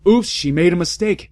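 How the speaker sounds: high, loud blaring correction. A narrator's reading. Headmaster correcting the teacher, loud blaring. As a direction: blare it over her. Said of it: "Dumbledore blared at her".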